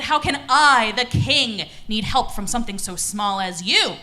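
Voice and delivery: loud, lightly acted lion king; scornful lion king. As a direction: scoff loudly at a tiny would-be helper. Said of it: "And he said".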